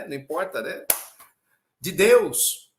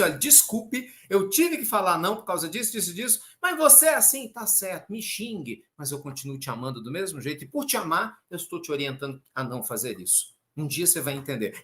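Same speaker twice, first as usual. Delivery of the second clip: reassuring parent. Retold or imitated. Parent calmly soothing an angry child, tender. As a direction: gently hold the line with love. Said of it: "Tipo assim".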